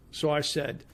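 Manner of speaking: usual speaking voice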